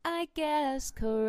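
high, stretched-out delight. Real, not acted. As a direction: draw the last word way out. Drawn-out gloating at guessing right.

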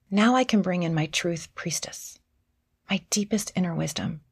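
normal talking voice

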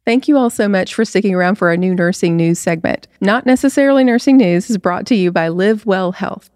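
smooth podcast ad read; host's scripted ad voice; sponsor read. Acted. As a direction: read out the sponsor message evenly. Reads the sponsor segment.

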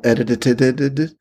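choppy repeated syllables like a bad splice; stuttering edit glitch. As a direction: glitch the word like a tape loop. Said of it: "I can take a lot of the phrases".

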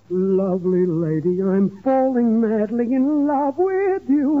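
slow, gurgling off-key serenade; gargling. Acted. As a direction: sing it like gargling with hot soup. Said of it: "It sounds like you're gargling with hot borscht".

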